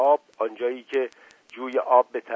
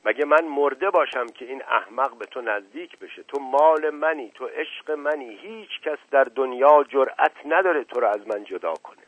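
shouting; 3 semitones higher than usual. Acted. Boy lost in his imagined speech, shouting passionately. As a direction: get carried away and shout it.

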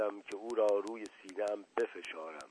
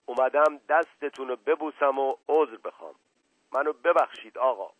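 louder, higher and eager; excited plea; 4 semitones higher, 8 dB louder than usual. Acted. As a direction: beg forgiveness with rising excitement. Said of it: "با صدای پرهیجانی گفت". (با هیجان و صدای بلندتر)

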